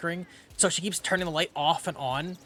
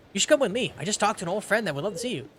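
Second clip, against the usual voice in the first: lightly voiced game character, pitched up; a milder character voice, raised in pitch; Reynolds; 4 semitones higher, faster than usual. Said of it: "Realize it's Reynolds".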